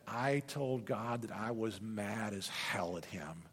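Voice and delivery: slow, low, soft admission of anger; retold hushed confession. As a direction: confess it slowly under your voice.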